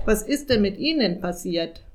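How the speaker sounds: lightly voiced raven, normal strength; lying raven. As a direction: ask it like the chatty raven. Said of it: "lug der Rabe drauf los".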